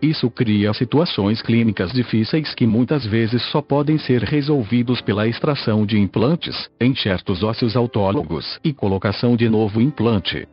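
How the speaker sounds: even, machine-read text-to-speech narration; synthesized voice. Real, not acted. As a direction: read it like a computer voice. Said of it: "falo através desta voz sintetizada".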